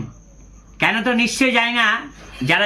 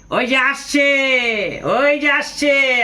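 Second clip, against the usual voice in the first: higher, drawn-out mocking call to everyone; teasing call-out; 5 semitones higher, much slower than usual. Driver calling others to watch him arrive, teasing. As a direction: announce him to the whole stand as a joke. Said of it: "সবাইকে ইয়ে ডেকে ডেকে বলছে".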